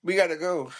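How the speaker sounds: lightly imitated sweet voice; a hint of put-on feminine sweetness; little sweet voice. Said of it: "the little sweet voice".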